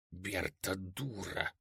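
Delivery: barely voiced, slow, lips only; mouthed whisper. A narrator's reading. Староста шепчет одними губами. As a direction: village elder mouthing it under his breath. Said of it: "прошептал одними губами староста".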